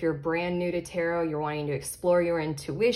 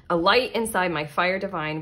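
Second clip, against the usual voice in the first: intent. Real, not acted. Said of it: "said that with such intent".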